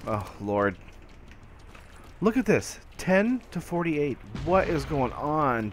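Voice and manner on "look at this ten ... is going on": outraged disbelief. Real, not acted. Dismay at the losing score.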